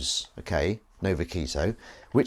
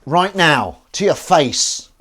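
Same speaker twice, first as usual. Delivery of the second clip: louder, higher mock challenge; playful telling-off, much louder; mock confrontation; 6 semitones higher, 10 dB louder, slower than usual. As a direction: pretend to square up to her. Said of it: "I'm confronting you".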